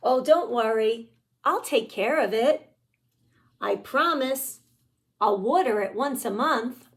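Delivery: pigeon voice. Acted. Pigeon promising to care for puppy.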